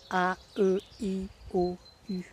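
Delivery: big open mouth on A, E, I, O, U; exaggerated French vowels. Shown as a demonstration. Teacher showing students big French vowels. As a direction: stretch each French vowel wide. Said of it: "I'm exaggerating now".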